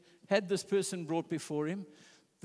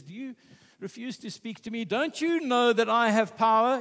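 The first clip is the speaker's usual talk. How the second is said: arrogant Pilate; 4 semitones higher, 4 dB louder than usual. Retold or imitated. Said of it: "He gets arrogant in his fear".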